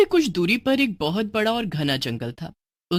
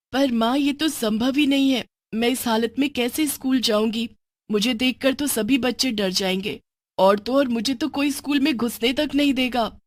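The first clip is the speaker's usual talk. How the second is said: put-on young girl Bini; 4 semitones higher than usual.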